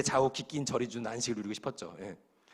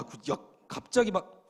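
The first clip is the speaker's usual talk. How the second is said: ordinary delivery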